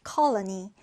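"colony" stressed on CO; stress on first syllable. Shown as a demonstration. Teacher modelling a new word, "colony" stressed on CO. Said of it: "첫 음절의 강세를 두고요".

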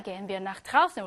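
very slow, careful German reading. Shown as a demonstration. Teacher reading the German dialogue line slowly. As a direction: spell out each German word slowly. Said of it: "발음 문제 한번 하겠습니다".

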